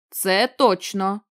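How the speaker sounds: slow, lightly growled thug line. Acted. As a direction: drag it out like a mild tough. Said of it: "прогарчав один із трьох бичар". (повільно, злегка прогарчано)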